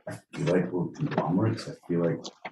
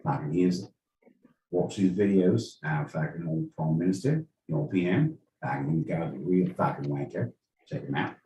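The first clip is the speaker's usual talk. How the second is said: imitating Aussie Dave; 4 semitones lower, 4 dB quieter than usual. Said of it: "Aussie Dave was like".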